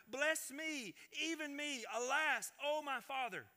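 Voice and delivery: high, pleading cry in a read-aloud; bitter cry. A narrator's reading. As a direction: plead with a father, each phrase falling from high. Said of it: "he cried out exceedingly great and bitter cry".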